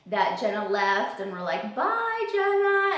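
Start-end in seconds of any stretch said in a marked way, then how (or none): 1.7-3.0 high, louder sing-song farewell; mock goodbye. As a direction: call out a fake goodbye so the bird hears. Pretending Jenna left, to bird.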